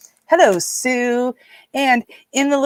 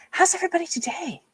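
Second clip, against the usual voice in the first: high, fast, squeaky voice; squeaky greeting; 10 semitones higher, 6 dB quieter, faster than usual. Pretend. Greeting stream viewers in a high squeaky voice. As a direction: pipe it up like a cartoon.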